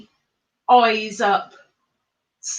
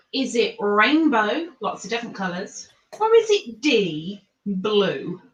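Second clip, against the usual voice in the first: quiz host. Acted. Repeats quiz question as host.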